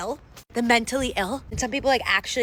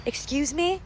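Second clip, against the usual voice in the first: high-pitched offended comeback; affronted; 7 semitones higher, slower than usual. Retold or imitated. Customer answering broker's money insinuation, affronted. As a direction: act out indignant disbelief.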